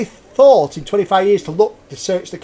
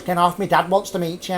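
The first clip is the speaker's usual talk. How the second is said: put-on Scouse accent; 4 dB quieter than usual. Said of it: "that's, that's Scouse".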